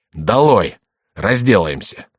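roaring. Acted. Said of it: "заревел Коконна".

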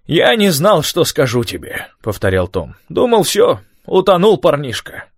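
high, emotional relief; relieved old man. A narrator's reading. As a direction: tell it with shaken relief.

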